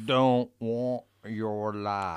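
slow, drawn-out quoted line; slow dramatic movie quote. Retold or imitated. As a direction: linger on each word. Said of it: "the one that said".

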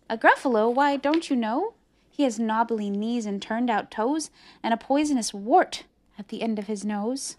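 lightly voiced mouse, lilting; a hint of a confident mouse; knowing mouse. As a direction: explain it as a know-it-all little mouse. Mouse describes the Gruffalo.

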